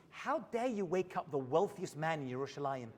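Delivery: laughing through the line; the rich man's indignant line, delivered through laughter; laughing punchline. Retold or imitated. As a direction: let the laugh spill into the punchline.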